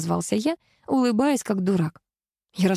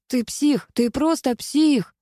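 yelling; 7 semitones higher, slower than usual. A narrator's reading. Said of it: "проорал он".

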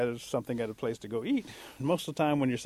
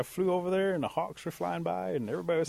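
higher-pitched, animated account; curious reporting; 6 semitones higher than usual. Acted. Eagle to bear by the creek, curious higher-pitched report. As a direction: tell what you noticed, pitch held up.

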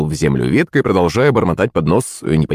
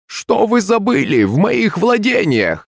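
slow, much higher crone voice; old woman voice; 12 semitones higher, slower than usual. A narrator's reading. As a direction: drag it out like an old hag. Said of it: "старушечий голос".

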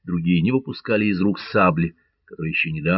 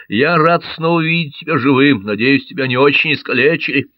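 higher, louder glad voice; 6 semitones higher, 5 dB louder than usual. A narrator's reading. Кармо радостно и громче. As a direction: Carmaux relieved to see his friend alive. Carmaux greets friend.

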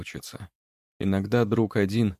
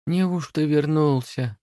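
lightly voiced sleepy house spirit; 7 semitones higher, slower than usual. A narrator's reading.

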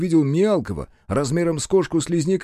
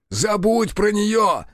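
high, slow bellow; yelled; 7 semitones higher, slower than usual. Acted. Рух yells at Захар to forget the brood mother. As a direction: shout him out of his daze. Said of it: "заорал Бучило".

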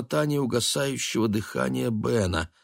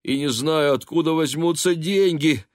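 lament; 7 semitones higher, 3 dB louder than usual. A narrator's reading. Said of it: "причитая".

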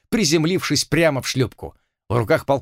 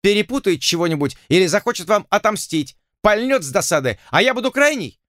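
higher, whining nobleman; anxious pompous complaint, pitched up; fretful lord; 8 semitones higher than usual. A narrator's reading. Lord complains about Bishop, higher whining voice.

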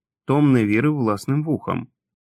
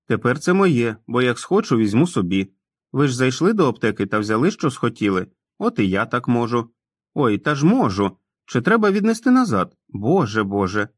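put-on sheepish grown man who talks like a boy; childlike Tom; 3 semitones higher than usual. Tom's voice continues. (несміливий дитячий голос Тома)

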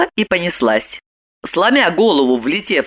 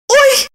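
sudden high feigned cry of alarm; 4 dB louder than usual. A narrator's reading. Wife fakes sudden illness at breakfast, high yelp. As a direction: yelp of fake pain, high and loud. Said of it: "вскрикнула Евдокия".

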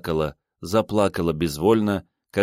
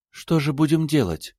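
put-on higher young woman's voice, bewildered; Ada, lost; 9 semitones higher than usual. A narrator's reading. Ada, lost in her lover's flat, asks in a higher young woman's voice. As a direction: ask it lost and at a loss. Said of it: "первая спросила Ада".

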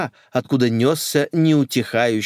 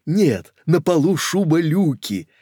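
amused lady; 6 semitones higher, 3 dB louder than usual. Acted. Koka laughing reply.

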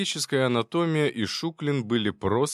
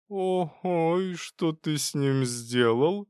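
much higher, slow interested question; curious; 7 semitones higher, much slower than usual. Acted. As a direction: lean in with curiosity. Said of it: "с любопытством спросил".

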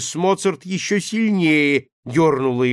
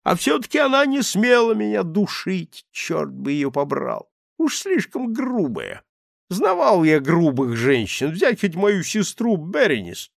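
put-on higher, louder grumbling drunk; a wounded drunk complaining; aggrieved drunk; 4 semitones higher, 3 dB louder than usual. Voices the drunk man.

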